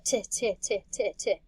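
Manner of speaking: "t, t, t, t, t" as short separate beats; accented first syllable. Shown as a demonstration. Teacher showing students the accented first syllable, "t, t, t, t, t" in short beats. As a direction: tap out the stressed syllable "t, t, t, t, t". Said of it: "accent on the first syllable".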